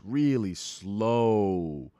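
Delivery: stretched-out, dragging SLOW; "slow" lengthened like a lazy drawl. Retold or imitated. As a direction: draw out "really slow" lazily. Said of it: "He has this southern drawl".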